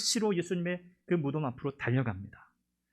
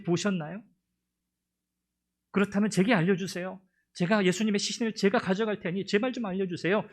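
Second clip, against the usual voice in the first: raised, earnest pleading voice; pleading Mary; 4 semitones higher than usual. Acted. Weeping woman begs a stranger for Jesus' body, pleading.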